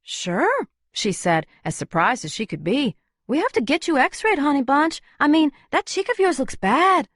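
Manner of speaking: Luna's voice. Acted. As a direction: take charge of the crowd. Luna's voice held.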